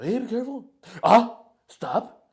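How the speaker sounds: high-pitched imitation of flustered bickering; retold fussy scolding. Grandma grabbing the baby from parent, fussy mock bickering. Fussing grandparent and retort acted out.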